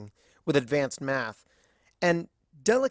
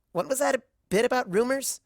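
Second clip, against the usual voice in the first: curious question; 10 semitones higher, 3 dB louder than usual. Acted. Dash curious about rumors.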